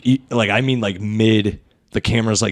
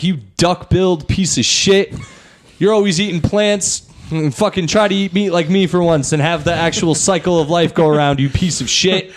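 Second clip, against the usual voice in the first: trash-talking dinosaur voice; 5 semitones higher than usual. Pretend. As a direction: sneer it like a bully dinosaur. Dinosaurs insulting each other.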